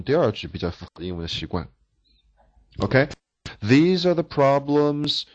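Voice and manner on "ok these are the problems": these are the problems read slowly, linked smoothly; model English reading. Shown as a demonstration. Teacher models English phrase for class to repeat. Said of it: "我刚才教过怎么念呢".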